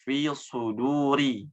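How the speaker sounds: suduri with heavy thick s; slow Fi suduri, full sod. Shown as a demonstration. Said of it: "harusnya tebal".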